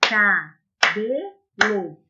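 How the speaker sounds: Cabelo stretched very slowly as ca-be-lo; pupils' turn, said slowly with claps; slow syllables. Shown as a demonstration. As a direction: draw out Cabelo one beat at a time.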